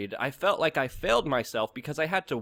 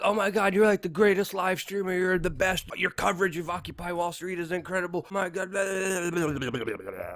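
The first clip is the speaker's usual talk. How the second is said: hammed-up sycophantic gush that slides down into babble; mock fawning; 4 semitones higher than usual. Studio minions flattering the live streamer, mock fawning. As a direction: imitate gushing flatterers in a higher voice, petering out into blahs. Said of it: "they were kissing my ass so much".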